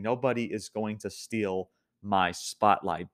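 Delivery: slow, deliberate quoted boast; retelling a wrestler's slow proclamation; mock declaration. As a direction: draw the boast out word by word.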